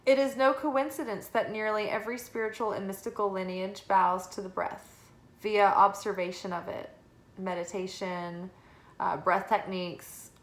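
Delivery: calm, measured reading voice; guidebook reading. Acted. Reads guidebook card text.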